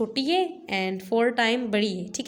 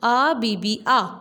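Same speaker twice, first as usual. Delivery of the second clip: smoothly blended but still slowish; now read it in one flow; read fluently; 4 dB louder, much slower than usual. Shown as a demonstration. Teacher reads आ बी बी आ fluently for pupils. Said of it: "एकदम से रवानी से पढ़ेंगे".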